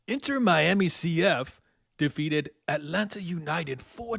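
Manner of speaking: lightly hammed-up stage actor reading; grand theatrical read of a dry recap; thespian voice. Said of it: "my thespian voice".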